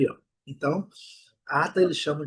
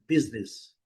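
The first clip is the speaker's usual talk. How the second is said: "Business" stressed on "BIZ"; stress on first syllable; 4 semitones lower, 4 dB quieter than usual. Shown as a demonstration. Teacher showing strong first syllable in "Business". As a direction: hit the first syllable of "Business", second one light. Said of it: "Sílaba forte a primeira".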